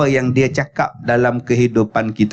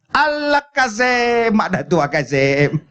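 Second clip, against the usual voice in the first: put-on high, slow pleading old mother; 7 semitones higher, slower than usual. Storyteller imitating Kasim's old mother begging her son, high pleading. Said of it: "Mak dia".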